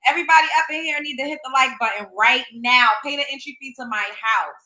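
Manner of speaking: loud fast hype call to the viewers; hype shout. Real, not acted. Streamer loudly and quickly begging viewers to like. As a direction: shout it out, rushing the plea.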